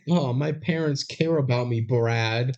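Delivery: high, sarcastic mock of a spoiled teen; hammed-up whiny teen voice on a call to Brad; mocking sarcasm. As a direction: lay the sarcasm on thick, slowing on the jab. Mocking Jamie's one-sided call.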